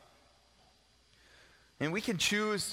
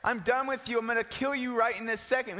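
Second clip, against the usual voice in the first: mock condemning; 4 semitones higher than usual. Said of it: "He doesn't look at him and say".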